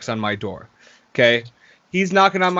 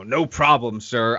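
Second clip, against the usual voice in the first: attitude; 4 semitones lower, slower than usual. Retold or imitated. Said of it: "big attitude now".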